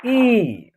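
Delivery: "ई" as one long held vowel; pronunciation demo. Shown as a demonstration. Teacher showing how the letter is pronounced, "ई" drawn out. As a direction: draw out "ई", letting it fall. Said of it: "तो इसका उच्चारण होगा".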